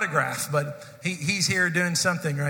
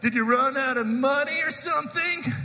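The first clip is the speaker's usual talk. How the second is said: put-on much higher, louder jeering teen voice; loud mocking taunt; 10 semitones higher than usual. Cruel teen boy taunts Aaron in line, loud high jeer. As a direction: call out to shame him in front of the line. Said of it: "in a really loud voice to go".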